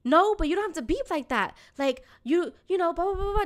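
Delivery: retold indignant back-talk; arguing back. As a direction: imitate passengers arguing, tailing into blahs. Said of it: "just, like, arguing with him".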